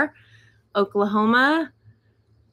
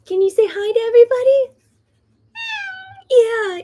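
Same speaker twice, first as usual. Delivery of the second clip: talking to a pet in a much higher, louder voice; 12 semitones higher, 6 dB louder than usual. Real, not acted. Talking to her dog on camera.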